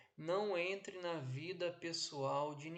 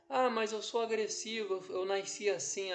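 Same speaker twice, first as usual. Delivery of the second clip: louder, higher mock objection; defiant excuse; 5 semitones higher, 8 dB louder than usual. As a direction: voice someone loudly excusing their temper.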